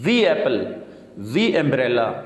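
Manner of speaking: دی as "dhee", run into apple and umbrella; no break after دی; linked thee. Shown as a demonstration. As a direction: glide from دی into each vowel. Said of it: "اس کو ملا کے پڑھنا ہے".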